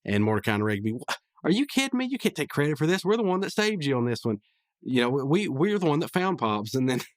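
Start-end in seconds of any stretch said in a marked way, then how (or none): 0.9-6.7 mock outrage. Mordecai and Rigby protesting to Vince.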